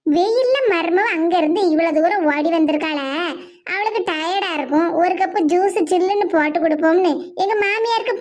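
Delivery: low, worn-out complaint about the heat; low-pitched muttered grievance; weary grumbling. Acted. Daughter-in-law grumbling after walking in heat.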